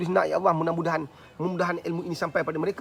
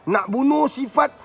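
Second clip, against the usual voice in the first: slow, high, drawn-out shouts; rousing declaration; 8 semitones higher, 7 dB louder, much slower than usual. Shown as a demonstration. Preacher vowing to kill off vices, slow rising shout. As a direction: shout each phrase, stretching the last word. Demonstrating a rousing self-cleansing chant.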